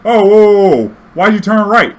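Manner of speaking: put-on high, loud startled old woman; panicked passenger shouting whoa; alarmed old lady. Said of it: "She's like".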